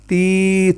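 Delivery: short clear ti syllable; sound ti. Shown as a demonstration. Teacher models the ti sound for a pupil. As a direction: read تی as a short ti. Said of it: "تی کی آواز ہی پڑھنی".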